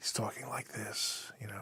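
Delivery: almost whispered, very soft, barely-there voice. Describing an actor's soliloquy scene over a big score, very soft voice. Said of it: "very soft".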